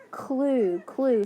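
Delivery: put-on slow, stretched clue said for a child; sounding out. Shown as a demonstration. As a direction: model the word clue slowly and clearly. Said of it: "C L".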